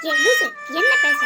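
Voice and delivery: annoyed retort. Acted. Sisters quarrel, sharp retort.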